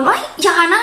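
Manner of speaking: imitating a yell at the cat, pitched high; a retold shout to stop the cat; mock yell. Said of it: "เราจะไปตะโกน". (ทำเสียงตะโกนห้ามแมว เสียงสูงขึ้น)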